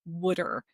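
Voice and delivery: "wooder" for water, said WOOD-er; regional pronunciation of water. Retold or imitated. Showing how Philadelphia people say water, wooder as WOOD-er. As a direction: say "wooder" with a short oo. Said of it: "that's why they say".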